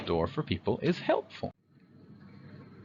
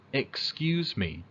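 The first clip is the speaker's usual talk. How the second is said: polite request; 3 semitones higher, slower than usual. Shown as a demonstration.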